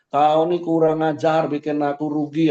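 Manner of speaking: a hint of a boss snapping at a worker; mock angry boss. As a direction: scold the worker for costing you money, sharply. Scolding an employee, cursing him.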